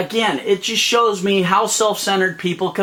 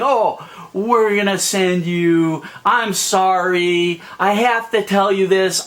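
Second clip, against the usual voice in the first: mock fake apology. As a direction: stretch it out like an insincere apology. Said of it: "by saying".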